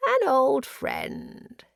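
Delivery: high, drawn-out mad greeting; exclaimed. A narrator's reading. Prisoner greets his old friend, exclaiming. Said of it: "he exclaimed".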